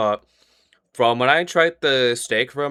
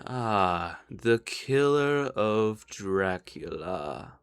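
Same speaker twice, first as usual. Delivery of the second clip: Elevar; 7 dB quieter, much slower than usual. Acted. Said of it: "you hear his voice again being like".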